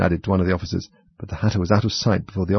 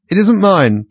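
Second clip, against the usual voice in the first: protesting Hatter; 10 semitones higher, 7 dB louder, slower than usual. A narrator's reading.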